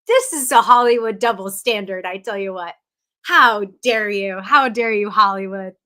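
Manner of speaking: playful fake fury at Hollywood; theatrical mock scolding of Hollywood; mock outrage. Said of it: "And I was like".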